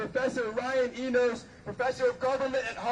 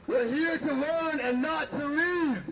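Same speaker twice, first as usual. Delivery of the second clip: podium speech. Real, not acted. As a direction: chant leader calling a line. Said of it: "Repeat after me".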